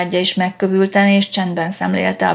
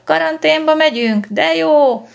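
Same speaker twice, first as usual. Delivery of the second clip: put-on high, loud childish glee; cheering kids; 8 semitones higher, 4 dB louder than usual. A narrator's reading. Excited children cheer about riding in a police car. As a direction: squeal it like thrilled little kids. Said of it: "a gyerekek felújjongtak".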